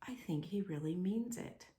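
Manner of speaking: soft unvoiced whisper; whispered thought. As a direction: breathe it like a secret hope. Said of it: "in his heart he thought".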